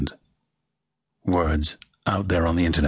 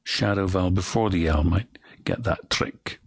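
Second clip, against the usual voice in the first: whisper. Real, not acted. Coach whispers.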